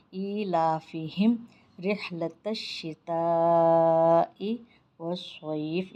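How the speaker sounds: slow, drawn-out chanted recitation; Quran recitation. Shown as a demonstration. Teacher reciting the verse for students, slow chant. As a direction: recite it in slow, melodic tajweed. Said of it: "یہ اس طریقے سے پڑھا جائے گا".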